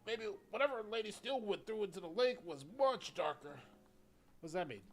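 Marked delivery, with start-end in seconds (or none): 0.1-3.6 put-on old man voice. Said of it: "I gotta do an old man voice".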